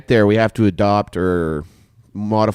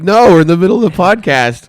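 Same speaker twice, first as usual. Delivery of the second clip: retold protest; 8 semitones higher, 8 dB louder than usual. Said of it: "I'm like".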